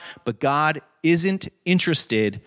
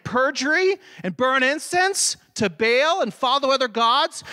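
scripture reading; 9 semitones higher than usual. Acted. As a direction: declaim the charge like the prophet. Preacher reads Jeremiah's accusation aloud.

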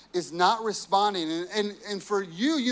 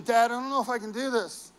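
put-on child crying out; 3 semitones higher than usual. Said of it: "if my son is crying out for me".

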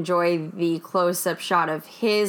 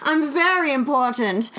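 self-important interviewee; 3 semitones higher than usual. Retold or imitated. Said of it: "was like, cheating the camera".

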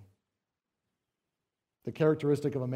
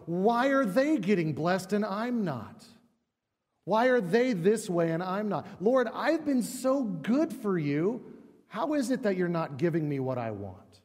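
whiny complaining; 4 semitones higher than usual. Retold or imitated. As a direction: play the hard-done-by believer griping. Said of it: "we go".

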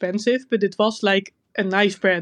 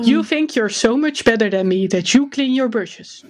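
mocking bully; 2 semitones higher than usual. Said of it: "you get bullied".

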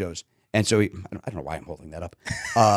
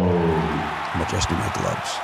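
low slow; 7 semitones lower, much slower than usual. Pretend. Playing batter, slow low voice.

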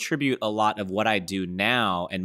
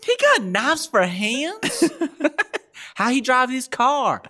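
goofy hick voice; slower than usual. Pretend. Goofy voice bit.

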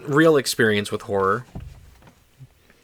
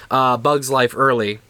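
normal talking voice

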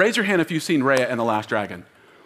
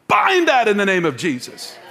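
loud, raised preacher's rebuke; forceful declaration; 5 semitones higher, 4 dB louder than usual. Real, not acted. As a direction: bind it with full force.

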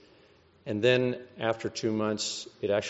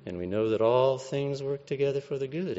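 mocking tempter; 4 semitones higher than usual. Satan mocking the verse.

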